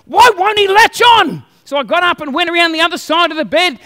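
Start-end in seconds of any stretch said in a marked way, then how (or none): 0.1-1.4 high, drawn-out exasperated cry, imitated; frustrated. Wife with a baby who won't feed, imitated frustrated wail. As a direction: mimic a wife at the end of her patience. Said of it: "more and more frustrated".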